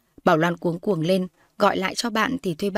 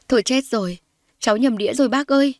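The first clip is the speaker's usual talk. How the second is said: mild wailing; 5 semitones higher than usual. Acted. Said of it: "mếu máo khóc".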